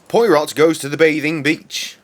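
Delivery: Michael Caine voice. Pretend. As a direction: ham up a gravelly-free Michael Caine read. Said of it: "when I'm doing my Michael Caine voice".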